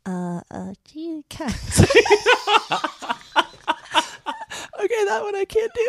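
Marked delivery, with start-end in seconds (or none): 0.0-1.8 put-on a weak try at a stammering kid; Butters attempt. Cohost tries the Butters voice and fails. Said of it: "Do you wanna try Butters?". 1.8-4.7 giggle fit. Real, not acted. Laughing at own failed attempt.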